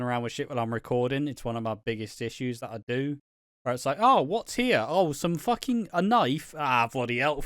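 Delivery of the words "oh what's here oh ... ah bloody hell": raised, excited mock discovery; mock surprise. Streamer acting out finding junk, mock surprised. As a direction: pretend to find things on your desk. Fiddling with things while recording.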